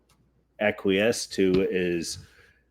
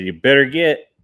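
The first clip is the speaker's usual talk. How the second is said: louder, higher final warning; shouted warning; 5 semitones higher, 10 dB louder than usual. Retold or imitated. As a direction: yell it at them this time. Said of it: "And she said".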